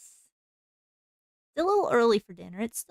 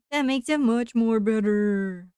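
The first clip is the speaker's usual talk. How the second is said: louder, laughing playful repeat; 7 dB louder than usual. Pretend.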